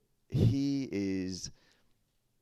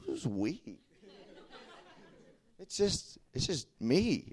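incredulous laugh; 6 semitones higher, 4 dB quieter, slower than usual. Retold or imitated.

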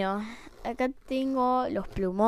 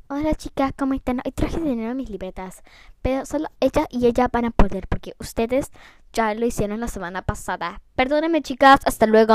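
put-on rich girl voice; 4 dB louder than usual. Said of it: "las típicas nenitas que tenían tanto".

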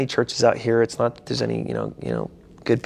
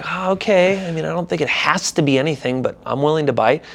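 higher, grudging okay; reluctant agreement; 6 semitones higher than usual. Retold or imitated. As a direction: concede with a sigh. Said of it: "I'm like".

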